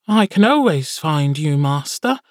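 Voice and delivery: high, squeaky little familiar; high creature voice. Acted. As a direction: pitch it way up like a small imp. Sammy answers Jag.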